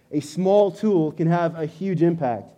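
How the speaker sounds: slow and deliberate, each word weighed; small tool, huge impact, spelled out slowly; slow emphatic repeat. Shown as a demonstration. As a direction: let the point sink in slowly. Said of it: "repeats point slower".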